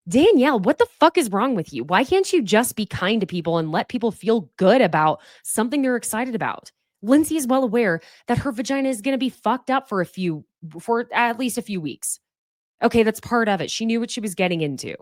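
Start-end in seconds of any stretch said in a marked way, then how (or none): 0.1-0.6 louder, higher "Danielle", falling hard; exasperated call. Real, not acted. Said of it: "you are such a freaking hater". 0.6-12.2 annoyed rant. Real, not acted. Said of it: "that just pisses me off".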